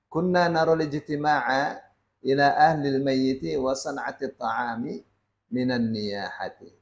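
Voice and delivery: measured formal reading of a classical Arabic passage; Arabic text recitation. Acted. Teacher reads the Sheikh's Arabic passage to the congregation, measured recitation. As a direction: read the Arabic text aloud steadily, as from the book.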